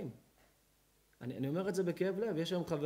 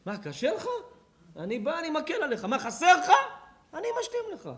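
laughing; 13 semitones higher, 8 dB louder than usual. Acted. Acting the caring brother, laughing.

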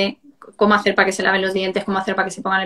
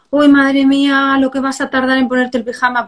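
mock dismay; 4 semitones higher, 3 dB louder than usual. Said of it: "hacerme la tonta".

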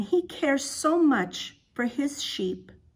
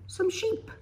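whispered, higher, with a rising lilt; hushed reveal; 8 semitones higher, 4 dB quieter than usual. Acted. Teacher unveiling the sheep to the kids, whispered. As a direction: tease the children with a secret whisper.

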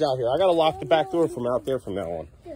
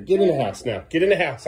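louder, firm command; stern order; 2 semitones higher, 5 dB louder than usual. Real, not acted. Owner ordering Birdie back inside, stern. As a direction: bark the order at the dog.

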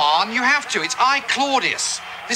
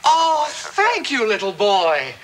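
sarcastic gushing; slower than usual. Acted. Thanks the boy who rescued the TV show, sarcastic gushing. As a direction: gush with exaggerated, drawn-out thanks.

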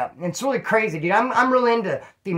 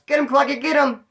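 much higher, louder egging-on shout; mock cheering yell; 9 semitones higher, 4 dB louder than usual. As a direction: yell like a neighbor cheering a fight through the wall. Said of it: "This fucking fool's watching us".

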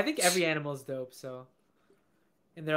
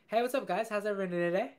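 higher, upbeat emcee greeting; performer greeting crowd; 4 semitones higher than usual. Shown as a demonstration. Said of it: "give me something else".

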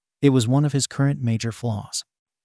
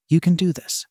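said calmly; 5 semitones higher than usual. A narrator's reading. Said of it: "Izuku said calmly".

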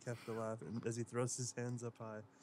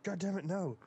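loud exasperated yell; shouting; 7 semitones higher, 6 dB louder than usual. Acted. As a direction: yell it in disgust. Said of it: "he shouted".

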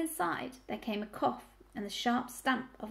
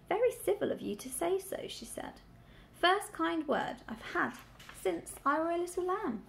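put-on grumpy old ewe; 7 semitones higher than usual.

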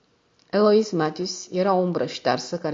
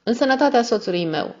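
lightly cooed, sweet raised toast; cooing; 7 semitones higher, 5 dB louder than usual. A narrator's reading. The wife toasting her husband, lightly cooing. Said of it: "spuse gângurind".

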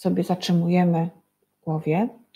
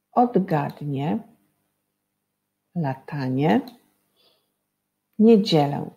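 each underlined word read slowly and set apart by pauses; teacher reading clue words one by one; slow word list; slower than usual. Shown as a demonstration. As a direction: lay out each word slowly for the class to spot the sound. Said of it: "Pomogą wam jeszcze podkreślone wyrazy".

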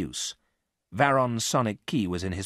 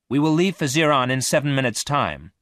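higher, louder robot crew announcement; 7 semitones higher, 7 dB louder than usual. A narrator's reading. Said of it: "Omega announced".

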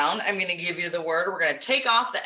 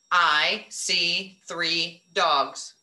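slow counting; 4 semitones lower, much slower than usual. Shown as a demonstration. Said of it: "then we count".

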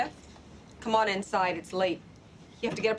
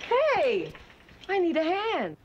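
higher, louder call across the house; calling for help; 7 semitones higher, 3 dB louder, slower than usual. Acted. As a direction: call out for a hand. Calling for help from another room.

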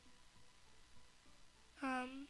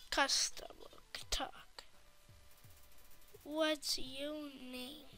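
unvoiced whisper; 9 dB quieter than usual. Real, not acted. Kid whispering a question about the game. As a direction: breathe it quietly.

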